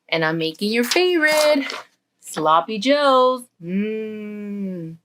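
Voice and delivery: lightly voiced mom drawing out the treat; coaxing mom. Mom offers son his favorite dinner, lightly coaxing. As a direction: tempt with the food, ending in a long 'mm'.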